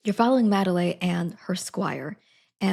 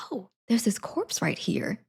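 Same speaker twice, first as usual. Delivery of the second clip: notice something odd and get excited; hammed-up dawning surprise; growing realisation; 4 semitones higher than usual. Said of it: "she's like".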